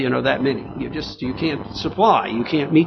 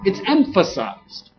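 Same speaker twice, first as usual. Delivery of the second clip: raised pitch, forceful sermon delivery; emphatic preaching; 8 semitones higher, 4 dB louder than usual. Real, not acted. Preacher telling the congregation God will live with man, emphatic preaching. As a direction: drive each phrase home to the congregation.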